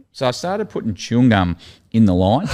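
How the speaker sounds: laughs through the line, half giggling; can barely keep a straight face; laughing while telling. Real, not acted. Telling the podcast host about the chewing gum prank, laughing. Recalling his own prank.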